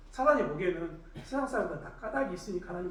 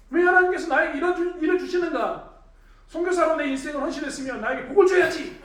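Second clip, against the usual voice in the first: 하나님께 높고 크게 따져 묻기; loud, high-pitched protest to God; 따지는 항의; 7 semitones higher, 6 dB louder than usual. Retold or imitated. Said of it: "하나님께 따질 때가 엄청 많았습니다". (목소리 높여 따지듯이)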